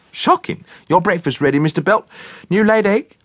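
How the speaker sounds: high, chirpy cook's voice. A narrator's reading. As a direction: play the bustling cook. Cook's voice in story.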